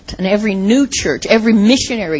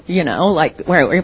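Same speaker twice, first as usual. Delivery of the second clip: put-on friends hamming up a Boston accent, park your car; imitating friends teasing about Boston in a Boston accent; mock Boston accent. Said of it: "all my friends said".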